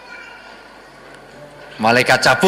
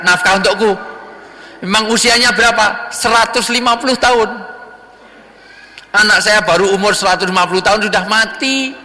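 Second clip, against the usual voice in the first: put-on wailing old mother; 7 semitones higher than usual. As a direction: plead her loss in a raised voice. Mother explains her dead son.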